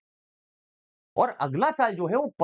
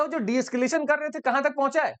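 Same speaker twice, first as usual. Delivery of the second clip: bossy question; 6 semitones higher than usual. Retold or imitated. Jaishankar demanding status from Wang.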